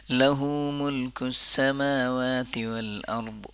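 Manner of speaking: لہ ملک السماوات والارض said slowly with full vowels; correct recitation. Shown as a demonstration. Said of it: "پڑھیں".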